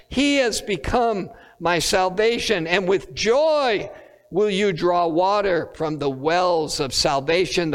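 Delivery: scripture reading. Acted. Preacher reading Isaiah to the congregation, solemn lift. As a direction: read the verse out with reverent lift.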